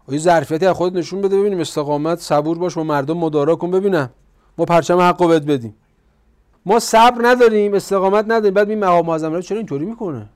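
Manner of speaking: loud sermon rebuke; forceful preaching. Acted. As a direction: chide the listeners loudly and briskly. Preacher berates with mock addresses.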